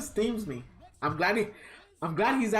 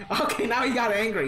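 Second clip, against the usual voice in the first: louder, laughing through it; 5 semitones higher, 4 dB louder than usual. Real, not acted. Laughing at the game character on screen. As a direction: laugh while talking.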